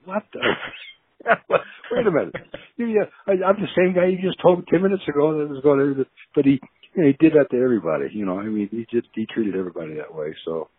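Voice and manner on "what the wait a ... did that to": much higher, incredulous outburst with laughs; mock indignant disbelief. Player recalling being chewed out, high incredulous yelp. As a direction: replay the shock of being torn down. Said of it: "I'm going".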